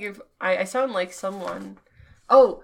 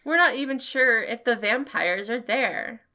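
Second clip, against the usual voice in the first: put-on grumpy old man voice. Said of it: "That's the best old man voice I have".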